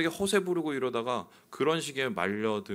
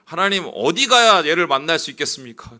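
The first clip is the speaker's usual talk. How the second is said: crying out to God, much louder and higher; desperate loud prayer; 6 semitones higher, 12 dB louder than usual. Retold or imitated. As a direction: plead with God at full voice, urgent. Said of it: "제가 기도를 하기 시작했습니다".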